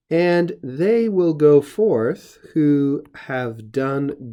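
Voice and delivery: slow, deliberate translation read aloud; slow scripture reading. Shown as a demonstration. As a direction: lay out each word of the verse slowly. Reads his literal translation slowly.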